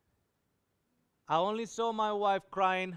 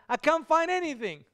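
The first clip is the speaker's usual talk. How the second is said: retold crying; 8 semitones higher, 6 dB louder than usual. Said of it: "she was crying and said".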